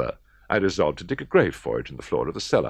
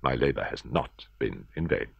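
triumphant; 4 semitones lower than usual. Acted. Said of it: "I looked around triumphantly and said to myself".

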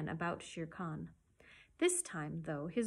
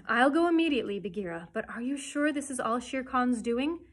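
put-on louder, higher, urgent young hero; raised voice, storybook urgency; eager and urgent; 5 semitones higher, 8 dB louder than usual. A narrator's reading. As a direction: jump to it, then question keenly. Mowgli eagerly agrees, acted.

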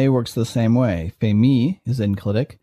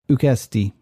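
ukesti stressed on the middle syllable, KES; accent the next-to-last syllable of ukesti; penult stress. Shown as a demonstration. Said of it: "It has an accent on its penult".

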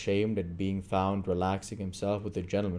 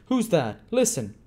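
alarmed Fagin; 9 semitones higher, 6 dB louder than usual. A narrator's reading.

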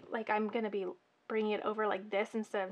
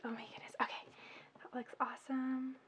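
whisper; 7 dB quieter, faster than usual. Real, not acted. Delighted at delicate result.

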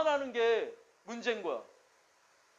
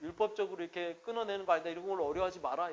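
a hint of soft, fast counselling; quiet counselling voice; 4 semitones lower, 7 dB quieter than usual. Pastor recalling his lenient advice to a drinker, quietly. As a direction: murmur the old advice to him gently. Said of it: "이렇게 했는데".

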